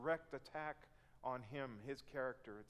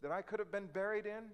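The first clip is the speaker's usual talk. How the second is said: loud, higher, accusing protest; raised mock outrage at God; indignant complaint; 7 semitones higher, 6 dB louder than usual. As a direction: hurl the accusation at God like an aggrieved Israelite. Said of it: "it comes out like this".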